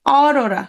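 অরোরা with a wide open "aw" at the start; অরোরা, first vowel open and held. Shown as a demonstration. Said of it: "বিবৃত".

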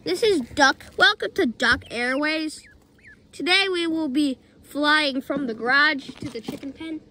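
lightly voiced captain announcement, slow; playful pilot speaking to passengers; airline pilot. Pilot announcement, Duck Airways.

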